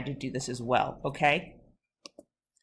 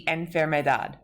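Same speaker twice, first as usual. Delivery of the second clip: enfermedad with DAD stressed; stress on last syllable. Shown as a demonstration. Teacher models the basic rule, stress on DAD in enfermedad. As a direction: land on the end of enferme-DAD. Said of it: "accent naturally falls on that last syllable".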